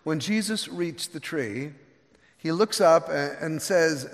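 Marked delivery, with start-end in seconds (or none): none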